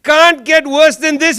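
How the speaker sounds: loud, mock-weary lament; exasperated exclamation. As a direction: throw up your hands, it can't get worse. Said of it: "then you get George W. Bush".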